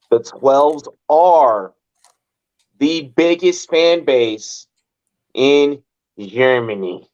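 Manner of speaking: slow, drawn-out bad German accent; terrible German accent. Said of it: "that was a terrible German accent".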